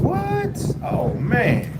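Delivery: high-pitched, astonished exclamation; thrilled disbelief at an unexpected gift; real surprise. Real, not acted. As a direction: jump way up in pitch, amazed. Reacts to a surprise donation.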